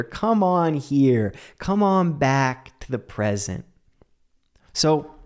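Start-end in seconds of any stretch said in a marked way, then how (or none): 0.0-3.6 gentle coaxing. Shown as a demonstration. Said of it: "We can still say".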